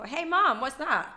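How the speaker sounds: put-on a kid asking mum what that word was, playful; imitating a toddler. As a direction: do a curious toddler piping up from the back seat.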